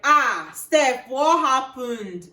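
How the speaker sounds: loud, high acted cry of dismay; shocked dismay. Examiner checks student's result, shocked. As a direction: imitate appalled concern, dragging out the question.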